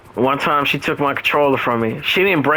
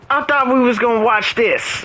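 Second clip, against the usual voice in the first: mock hurt girlfriend; 10 semitones higher than usual. Girlfriend voiced in retold story.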